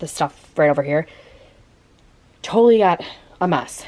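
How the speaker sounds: breathless, out of breath. Sorting a child's toy containers while talking to viewers, out of breath. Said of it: "You guys can tell I'm, like, out of breath".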